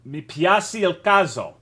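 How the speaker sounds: slow, careful Italian phrase in a halting Italian accent; Italian spoken slowly and carefully; attempted Italian. Shown as a demonstration. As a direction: try your best Italian, sounding it out. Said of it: "That's my best fucking attempt".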